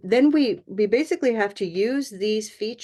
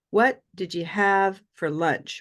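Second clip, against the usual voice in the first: slow WHAT, then 'did you have for lunch' in beats; separate beats. Shown as a demonstration. Teacher showing word groups to students, separate beats. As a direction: say 'What did you have for lunch' slowly, beat by beat. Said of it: "we can connect it, but we still have this idea of these beats".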